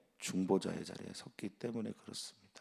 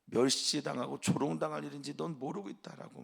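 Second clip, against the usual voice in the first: shaming rebuke; 4 semitones higher than usual. Acted. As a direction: scold him for the shame. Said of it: "말합니다".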